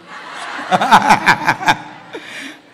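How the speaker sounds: real burst of laughter; laughing. Real, not acted. Teacher joking his words surpass the dictionary, laughing. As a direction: laugh heartily at your own joke.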